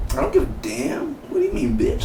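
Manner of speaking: high-pitched mock girl yelling; shrill bratty kid shout.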